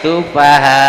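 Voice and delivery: sufaha said slowly with a break as if a comma; slow it down and pause where the hamzah sits; slow with hamzah stop. Shown as a demonstration. Teacher slowing down to show the comma-like stop. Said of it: "Jadi kada koma".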